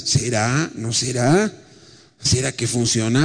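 a hint of quiet, hesitant doubt; doubting inner voice. Believer doubting prayer, lightly voiced hesitant questions. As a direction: voice the doubter softly, unsure. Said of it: "muchas preguntas".

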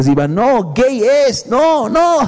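acted divine shout. God warning a smitten woman about her prince, rising mock shout. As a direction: rise into high, urgent calls. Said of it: "Dios te puede estar gritando".

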